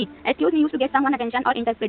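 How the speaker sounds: slow, spelled-out reading; teacher dictating a definition slowly; slow dictation. Shown as a demonstration. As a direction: read the definition very slowly for students. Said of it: "एक और use होता है word excuse me".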